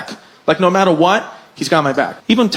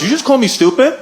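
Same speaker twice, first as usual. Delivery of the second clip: offended, higher-pitched imitation of dad; upset dad; 6 semitones higher than usual. Dad to principal who insulted him, mildly upset. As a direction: challenge the insult with rising pitch. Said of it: "made my dad really upset".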